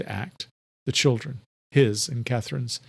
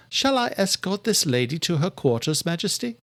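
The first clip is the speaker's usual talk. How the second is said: higher servant voice asking; polite question to the king; Adela's voice; 7 semitones higher than usual. A narrator's reading.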